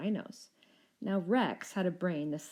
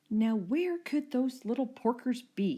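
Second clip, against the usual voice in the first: high, louder puzzled villain; villain muttering; 6 semitones higher, 4 dB louder than usual. A narrator's reading. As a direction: grumble it to himself. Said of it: "he muttered".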